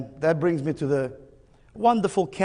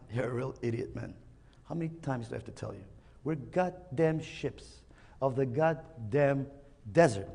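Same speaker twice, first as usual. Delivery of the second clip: weary father camel; 6 dB quieter than usual. Acted. Father camel loses patience.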